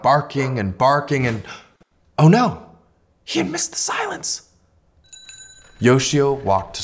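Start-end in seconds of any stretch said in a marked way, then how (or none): 2.2-4.5 dismayed oh no. A narrator's reading. Yoshio realises he missed silence.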